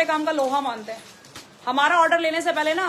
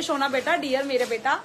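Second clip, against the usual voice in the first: imitating a fond customer's loving plea; lovingly. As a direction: coax her name out sweetly. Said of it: "अब madam प्यार से बोल रही".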